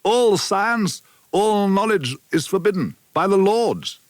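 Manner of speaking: lightly voiced old man, solemn and bitter; a hint of an old village elder warning of the lords; old rebel elder Kalmar.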